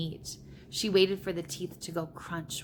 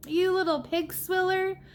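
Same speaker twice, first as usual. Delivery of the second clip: furious roar; 12 semitones higher, 5 dB louder than usual. A narrator's reading. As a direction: roar the insult as an enraged giant. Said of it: "roared the blood bottler".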